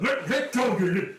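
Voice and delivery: high, strained plea to let go; panicked elf. Acted. Fleeing elf begs the halfling to let go, high and frantic. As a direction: elf yanking free, pleading in a high voice. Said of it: "And he's like".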